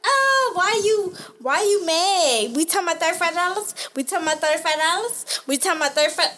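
mock whiny indignation, questions rising; imitating mad man. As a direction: mimic his indignant, repeated complaint. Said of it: "He was so mad".

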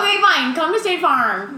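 high, loud exasperated bargaining; mock pleading. Fan offering a rapper a bigger arena, mock pleading. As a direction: give in and beg, playfully.

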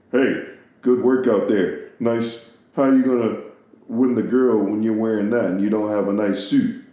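lightly done deep-voiced boss baby; a hint of a deep-voiced little executive. Baby boss giving advice on winning the girl, lightly deep boss voice. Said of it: "like, mad deep".

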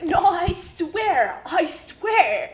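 pleading high voice, slow and drawn out; high guy's plea. Retold or imitated. Guy on the plane swearing to the narrator, in a high pleading voice. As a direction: beg it, stretching the words.

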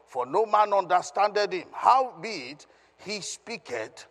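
measured, emphatic Bible reading; scripture reading aloud. Acted. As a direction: proclaim the verse phrase by phrase. Reads scripture aloud to congregation.

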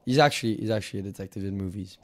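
hammed-up French accent, lightly put on; mock French accent. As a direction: play a pompous French negotiator in a mock accent. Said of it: "Fuck this French accent".

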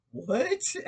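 high, loud incredulous what; confused nurse reacting to her joke, high and loud; baffled nurse. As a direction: play the stunned nurse, way up high.

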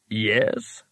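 slow, calm stone voice; an unbothered rock, speaking slowly; talking rock voice. Acted.

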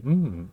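savoring hum; delicious mmm. Shown as a demonstration.

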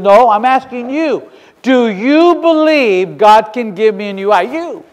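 YOU drawn out and leaned on; insistent challenge. Retold or imitated. Sceptic confronts the young witness, insistent challenge. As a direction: press the question slowly, stretching YOU.

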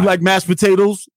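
high, mock creepy question; unsettling, hammed-up host; creepy menacing question. Creepy table intimidation.

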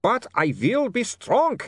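high, slow, strained vampire cry; screamed resolve. A narrator's reading. Vampire fights his own craving, screaming. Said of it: "he screamed".

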